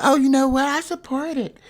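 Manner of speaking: a hint of a smug ally; mock supporter. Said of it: "Y'all like".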